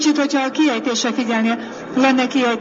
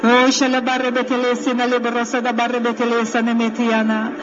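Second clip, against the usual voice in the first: rhythmic prayer in tongues; speaking in tongues. Acted. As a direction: pour out flowing tongues prayer. (nyelveken imádkozás)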